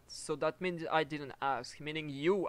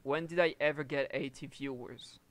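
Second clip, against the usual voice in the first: repeated louder and clearer. Real, not acted. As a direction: say it again, louder so they hear.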